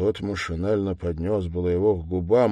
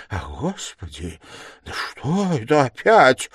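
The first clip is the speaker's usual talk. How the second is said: alarmed exclamation; 6 semitones higher, 6 dB louder than usual. A narrator's reading. Investigator startled by the suspect's shouting, alarmed. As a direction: exclaim in dismay, jumping up on the last words. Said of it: "в совершенном испуге".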